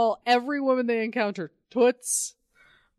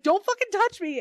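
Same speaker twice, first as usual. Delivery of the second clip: mock angry snap; 10 semitones higher than usual. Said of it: "she's like".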